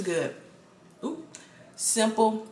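chewing between words; talking while chewing. Real, not acted. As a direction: mouth partly full of food. Seen 1: Ate mussel at -2s; closed-lip chewing motions between words.

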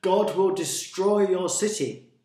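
loud, high proclamation of doom; warning. A narrator's reading. Jonah warning Nineveh of destruction, loudly. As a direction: call out the threat with full force. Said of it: "he warned them".

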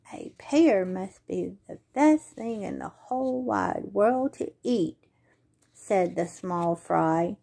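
lively storybook read-aloud; reading to children. Acted. Librarian reading a possum story at story time, lively. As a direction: bring the story alive for little ones.

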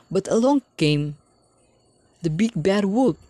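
breathy storyteller whisper; spooky whisper. A narrator's reading. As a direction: whisper it for suspense. Spooky build-up to the wolf.

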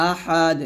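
আহাদ ending with a bouncing echo on the d; আহাদ with a clear qalqala release; qalqala on dal. Shown as a demonstration. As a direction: let the দ of আহাদ bounce when stopping. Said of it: "কলকলা হয়ে যাবে".

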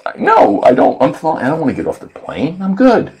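high laughing denial; giggly tipsy protest. Retold or imitated.

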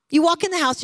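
ordinary delivery

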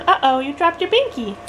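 put-on gentle baby talk. Mom talking to baby.

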